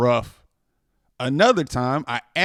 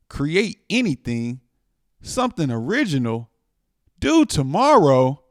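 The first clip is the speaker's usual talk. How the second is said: anxious disbelief. Acted. Panicked inner questions.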